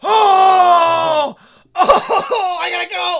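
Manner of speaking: high, loud mock panic, half crying; mock panicked cry. Watching the film, mock panicking to leave. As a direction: yelp like you need to flee the room. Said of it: "I'm like".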